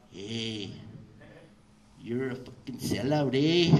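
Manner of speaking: homie leaning in, building to a loud finish; angry tenth grader. Retold or imitated. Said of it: "an angry tenth grader".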